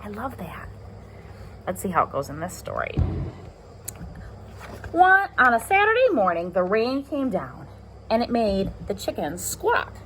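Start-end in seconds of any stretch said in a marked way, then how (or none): 4.9-9.9 storytime voice for little ones; reading to children. Acted. Teacher reading story to class, lively storytime voice. Reads picture book aloud.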